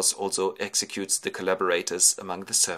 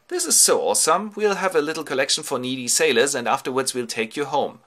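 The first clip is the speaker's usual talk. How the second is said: raised, enthusiastic king's voice; impressed king; 5 semitones higher, 5 dB louder than usual. Acted. King Alkinoos rewarding Ulysses' story, impressed and enthusiastic. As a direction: gush with approval at the story. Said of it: "very impressed by this story".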